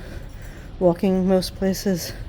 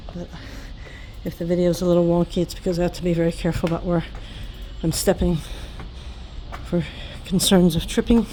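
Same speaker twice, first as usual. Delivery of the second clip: out of breath from the steep climb; puffing between words; heavy breathing; faster than usual. Real, not acted. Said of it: "Sorry, I'm breathing hard".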